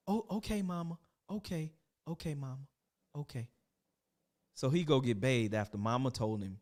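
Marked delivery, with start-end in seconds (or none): 0.1-3.5 meek agreement. Acted. Lavelle meekly agreeing.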